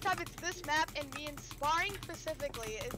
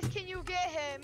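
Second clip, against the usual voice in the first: high-pitched replay of a plea; retold begging; 6 semitones higher than usual. Player reminding teammate how they begged for help, mock pleading. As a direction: re-enact your own begging, pitched up. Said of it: "I begged you".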